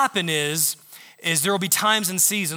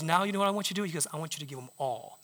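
softer gentle instruction; God whispering; 8 dB quieter, faster than usual. Retold or imitated. God whispers his instruction to the giver, hushed. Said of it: "whisper in my ear".

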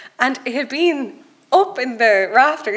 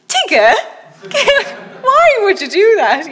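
puzzled islanders; 11 semitones higher, 8 dB louder than usual. Retold or imitated. Islanders puzzled at her question.

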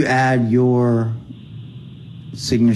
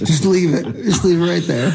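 laughing; 6 semitones higher than usual. Real, not acted. Laughing through the joke.

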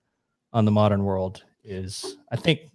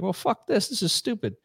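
much higher, softer mock scoff; disgusted soldier; 9 semitones higher, 6 dB quieter than usual. Returning soldiers dismissing communism, high soft mock scoff. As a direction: toss it off like a soldier fed up with communism. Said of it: "were like".

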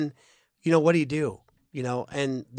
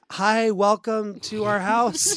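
mock welcome; 5 semitones higher, 5 dB louder, slower than usual. Greeting strangers in yard.

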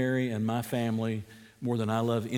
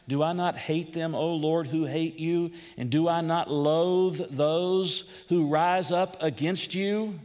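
"not" leaned on, "you" lifted higher at the end; asking a question; 4 semitones higher than usual. Shown as a demonstration. Preacher rereading David's words as a real question, questioning. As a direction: make it a pleading question. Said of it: "he's asking it as a question".

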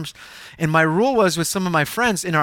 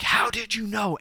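higher, understated cry of astonishment; retold tearful question; 6 semitones higher, 4 dB quieter than usual. Woman stunned by the pastor's word, mildly tearful. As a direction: lightly imitate a woman starting to cry. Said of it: "she starts crying".

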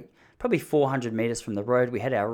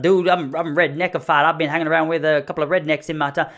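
put-on loud, higher redneck Southern accent; Ruth from Ozark; 4 semitones higher, 6 dB louder than usual. Redneck answering where his accent is from, strong Southern accent. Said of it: "It was like Ruth from Ozark. That's what it sounded like".

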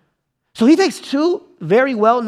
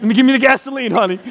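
hammed-up vengeful neighbor; 3 semitones higher, 3 dB louder than usual. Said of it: "you're like".

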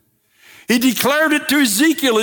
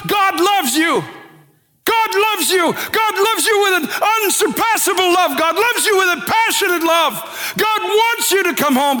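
high, ringing pulpit proclamation; raised-pitch preacher's declaration, insistent on each phrase; impassioned preaching; 7 semitones higher than usual. Retold or imitated. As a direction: proclaim it fervently, as a revival preacher retold. Acting out Evan Roberts's pulpit message.

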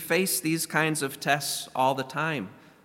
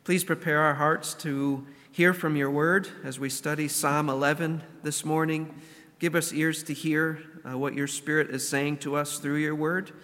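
prayer. Acted. Opening prayer before sermon.

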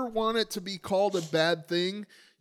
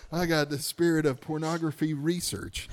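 research set apart with extra emphasis; stress on RESEARCH. Real, not acted. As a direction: lean pointedly on the word research. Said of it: "I emphasize the word research".

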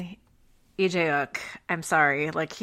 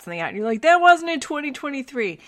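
light teen boy impression, louder quote; teenage boy voice; 2 semitones higher, 6 dB louder, faster than usual. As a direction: talk like a teenage son. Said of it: "how I talk when I'm imitating my son".

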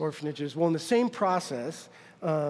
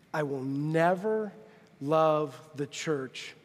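solemn promise; 2 semitones lower, much slower than usual. Retold or imitated. Solemn promise to his wife.

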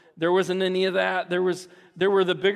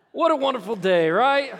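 louder mock cheer with a laugh; sarcastic cheer; 4 semitones higher, 4 dB louder than usual. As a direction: fake brightness over a ruined toy. Sarcastic after toy ruined.

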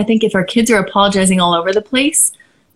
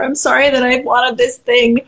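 put-on higher, slow little-kid voice; imitating a child; 4 semitones higher, slower than usual. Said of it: "If she's like".

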